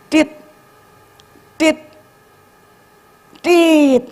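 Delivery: spaced beeps, last one stretched high; imitated slowing monitor beeps. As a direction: mimic a heart monitor going flatline. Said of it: "mesin-mesin yang jalan itu tit".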